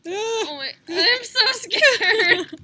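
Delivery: scared. Real, not acted. Scared before eating gross bean.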